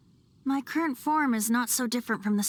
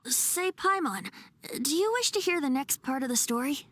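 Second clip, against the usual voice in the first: teasing; 5 semitones higher than usual. Acted. Teasing Paimon before the story.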